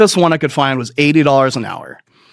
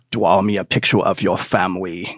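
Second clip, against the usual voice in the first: lower, softer calm therapist; 7 semitones lower, 4 dB quieter than usual. Retold or imitated. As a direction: put on the therapist's measured tone. Therapist voiced in story.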